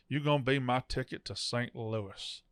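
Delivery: put-on slow, drawn-out Texas accent. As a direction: drag the Texas accent out slowly. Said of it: "he slows it down".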